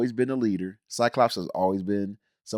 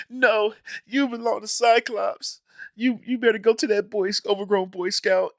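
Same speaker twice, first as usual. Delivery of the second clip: mock noble Wolverine; 9 semitones higher than usual. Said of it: "he was like".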